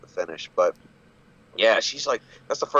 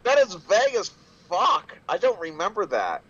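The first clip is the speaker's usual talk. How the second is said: baffled protest; 8 semitones higher than usual. Real, not acted. Protests the baffling anonymous question.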